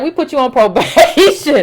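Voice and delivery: incredulous laugh on the last word; laughing retelling. Retold or imitated. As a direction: quote it breaking into a laugh. Laughing at absurd retold ruling.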